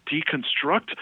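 "Deconstruct?" echoed with a high, offended rise; indignant echo. Retold or imitated. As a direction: throw "Deconstruct?" back as if insulted. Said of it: "He's like".

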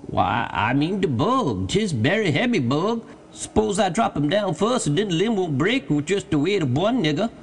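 high-pitched lilting dialect voice; Jupiter, wheedling servant. A narrator's reading. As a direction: argue hopefully with your master from the tree. Jupiter explains about the bug.

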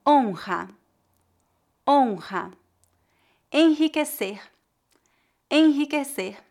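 "Rato" with a throaty h-like R from the throat; teacher models the guttural R, then says "rato" again. Shown as a demonstration. Teacher models words for students to repeat, throaty R. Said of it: "Repita depois de mim para praticar".

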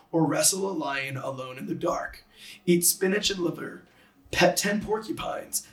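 rhythmic, bouncy poem recital; sing-song reading of a kid's poem. Shown as a demonstration. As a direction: read it out with the lilt of a children's poem. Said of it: "I'll just read through it".

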